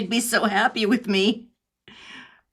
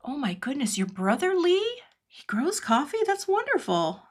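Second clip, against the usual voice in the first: delighted surprise; 6 semitones higher than usual. Real, not acted. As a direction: react with pleased astonishment, pitch leaping up. Reacting to a viewer's coffee news.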